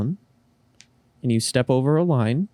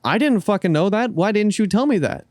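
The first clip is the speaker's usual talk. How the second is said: mock annoyed cashier; 7 semitones higher than usual. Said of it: "be like".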